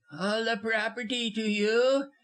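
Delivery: high incredulous question, rising at the end; aghast, pitched well up; gasped disbelief. A narrator's reading. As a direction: gasp it back as a shocked question. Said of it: "Busham went green and gasped".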